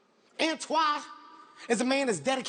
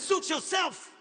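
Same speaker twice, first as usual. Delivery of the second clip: higher, stretched-out dismissal; imitating an intense guide, drawn out; deliberate, high-pitched brush-off; tour guide's retort; 5 semitones higher, much slower than usual. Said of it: "He says".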